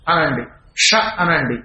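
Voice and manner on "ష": ష with the tongue curled up to the roof of the mouth; retroflex sibilant. Shown as a demonstration. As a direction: demonstrate ష as an isolated retroflex syllable. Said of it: "అప్పుడు మూర్ధములు పైకి ఎడతాయి".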